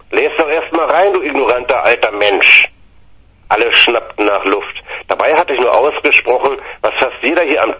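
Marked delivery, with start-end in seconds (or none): 0.1-2.7 heated insult. Retold or imitated. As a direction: pitch up, scornful retort. Nephew insulting uncle.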